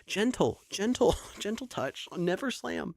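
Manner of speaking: put-on lightly sing-song talk to a toddler; gentle scolding. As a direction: coax her gently to be careful. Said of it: "I was like".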